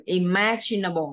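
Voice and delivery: "imaginable" said slowly, with a ch for the g; slow model. Shown as a demonstration. Teacher shows the ch sound in the word, slowly. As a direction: stress the ch in "imaginable", taking your time. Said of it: "Đây chữ chờ nhá".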